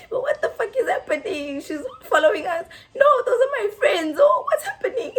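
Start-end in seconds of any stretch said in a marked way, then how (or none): 2.9-5.1 laughing. Retold or imitated. Drunk friend voiced while laughing.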